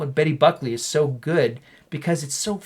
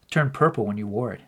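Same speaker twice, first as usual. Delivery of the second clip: Mark Wahlberg line reading; 4 semitones lower than usual. Acted. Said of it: "you're gonna play the part of Elliot Moore".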